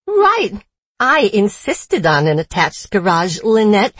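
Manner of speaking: put-on grating Boston accent. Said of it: "switches back to her grating Boston accent".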